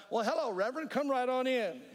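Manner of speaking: high-pitched effusive welcome, imitated; gushing welcoming nurse. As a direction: play the nurse suddenly all welcoming. Nurse now welcomes the suited pastor.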